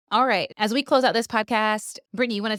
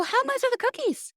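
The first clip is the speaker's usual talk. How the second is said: way up high, mock alarm; incredulous question. Asking the Girl Scout seller the price, high mock alarm. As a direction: ask it like you dread the answer.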